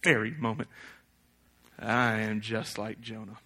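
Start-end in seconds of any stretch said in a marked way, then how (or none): 1.8-3.4 quiet confession. Real, not acted. Quiet confession after rant.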